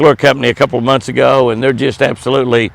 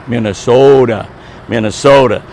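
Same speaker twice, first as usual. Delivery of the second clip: Jesse Ventura; 3 semitones lower than usual. Retold or imitated. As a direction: imitate a governor's lingering way of saying Minnesota. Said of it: "as Governor Jesse Ventura would say".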